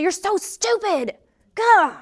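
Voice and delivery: put-on slow, high, sneering insult to a child; high mocking scold ending in a disgusted grunt; mock harsh scolding. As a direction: spit it out like a cruel critic. Mock harsh self-talk to child.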